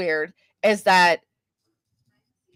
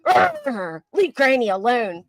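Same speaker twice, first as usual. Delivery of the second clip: mock maniac scream; 2 semitones higher, slower than usual. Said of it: "scream like a maniac".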